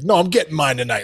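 put-on cocky, confident swaggering attitude. Acting out a hitter's confident mindset at the plate: imitating a cocky hitter's attitude. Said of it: "sometimes it's an attitude like".

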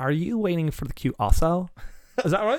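loud, exaggerated put-on Californian girl accent. Asked for their best American accent, the speaker shows off a California American accent. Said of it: "I can do like a California".

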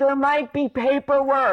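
put-on yell, pitched very high. Speaker retells a man half a block ahead turning back, imitating someone yelling. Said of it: "he turns back and yells".

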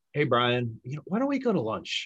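rising, asking-like tune carried through "go to". Speaker demonstrating how a question sounds, with rising question intonation. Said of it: "if the inflection of our voice goes up in tone".

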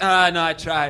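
normal talking voice

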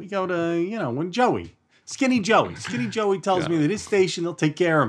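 put-on New Jersey accent. Joking about where to buy gas: Italian-American Jersey accent. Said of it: "when I do the Jersey accents".

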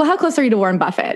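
normal talking voice

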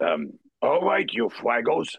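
rough voice dropping r sounds. Speaker recalls a voice borrowed from Fraggle Rock for a role; gravelly Fraggle Rock character voice. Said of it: "He couldn't pronounce his R's".

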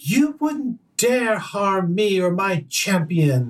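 high-pitched scream. A game master voices the princess as another character raises his sword, Princess Fjord screaming. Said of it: "Princess Fjord sort of screams".

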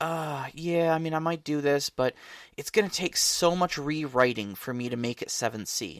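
sighed-out, weary, worn-down, reluctant musing. Recalling how the listener reacted to a rewriting job, imitating a sigh. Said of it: "you kind of sighing and going like".

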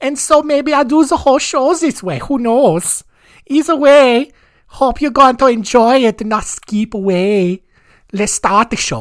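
stupid, high-pitched, put-on German accent. Opening the show about early German serial killers: stupid German accent. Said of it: "this stupid accent going to be very prominent".

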